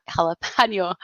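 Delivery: jalapeno in an odd non-Midwest accent; odd accidental accent. Real, not acted. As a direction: slip into a funny accent on JALAPENO. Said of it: "saying it like that tonight".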